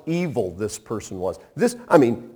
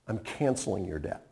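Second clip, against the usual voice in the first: tender pardon; 7 semitones lower, 13 dB quieter than usual. Shown as a demonstration. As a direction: lay the pardon down gently. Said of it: "He says".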